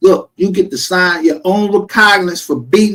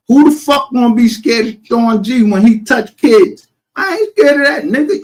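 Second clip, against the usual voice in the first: higher, louder, near-crying rage; furious; 9 semitones higher, 5 dB louder than usual. Real, not acted. Raging at the rival over Sean G, higher and louder. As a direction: spit it out, voice cracking with anger.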